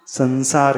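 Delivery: संसार said with an n before स; with n sound. Shown as a demonstration. Teacher shows the correct संसार pronunciation. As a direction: say संसार with a dental न. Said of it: "यहाँ पे संसार नहीं कह रहे अपन".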